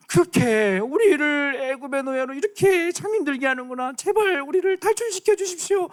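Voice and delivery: high, pleading cry; hammed-up desperate plea; pleading slaves. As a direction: beg God for rescue. Israelites pleading with God.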